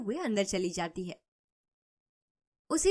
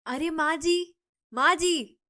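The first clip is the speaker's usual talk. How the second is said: higher and louder, calling someone outside; calling out loudly; 5 semitones higher, 4 dB louder, slower than usual. A narrator's reading. Neighbour Shanti calls mother-in-law out of her house, raised calling voice. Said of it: "बाहर निकलकर चिल्लाने लगती है".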